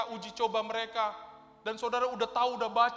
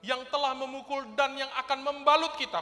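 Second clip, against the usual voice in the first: raised, emphatic Bible reading; preacher reading scripture; 4 semitones higher, 7 dB louder than usual. Acted. Preacher reading Hosea to the congregation, emphatic. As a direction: proclaim the verse to the room.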